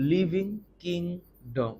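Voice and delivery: living kingdom stretched very slowly; drawn-out pronunciation. Shown as a demonstration. Teacher stretching living kingdom for the class. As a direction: draw out living kingdom word by word. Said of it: "তখন আমরা বলবো হচ্ছে living kingdom".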